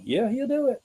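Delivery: high answering call; church response. Retold or imitated. A churchgoer answers the call, high and sure. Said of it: "Somebody like".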